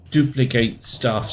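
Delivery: ordinary talk, nothing marked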